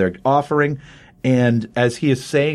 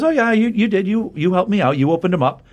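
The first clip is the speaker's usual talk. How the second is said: lightly mocking, higher-pitched retold villain; mock agreement; 7 semitones higher than usual. Villain answering the pleading doctor, mock agreement. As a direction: breezily agree in a raised voice.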